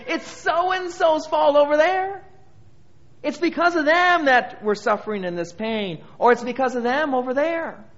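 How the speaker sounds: high-pitched mock blame, pushing it onto someone else; blaming others. Preacher mimicking people who blame others, high accusing voice. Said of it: "when people always say".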